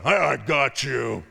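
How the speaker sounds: a slow, menacing lion taunt; playful lion threat; mock lion voice. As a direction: loom over the listener like a lion about to pounce. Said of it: "a lion roars at me going".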